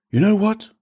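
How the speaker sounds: high-pitched, exasperated challenge; fed up, voice jumping up; indignant outburst. A narrator's reading. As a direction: snap in rising indignation. Priest loses temper, throws Pep out.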